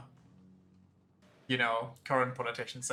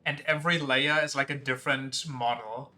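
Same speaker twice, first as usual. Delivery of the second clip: louder, eager idea pitch; excited; 4 dB louder than usual. Real, not acted.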